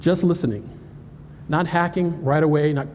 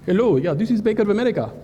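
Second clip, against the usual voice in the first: higher put-on phone voice; fake bank caller; 4 semitones higher than usual. Hacker answers as Bank of America, higher put-on voice. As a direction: pose as an eager bank representative on the line.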